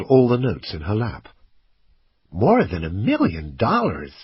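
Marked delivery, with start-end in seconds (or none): 2.3-4.1 a hint of a girl's voice, counting; lightly voiced girl. A narrator's reading. Kelly reports the money count, lightly voiced girl. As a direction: lightly put on a child's voice.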